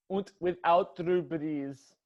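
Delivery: put-on slow, half-hearted German accent; a lazy German accent on Und; hint of a bad German accent; shoddy German accent. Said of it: "a shoddy German accent".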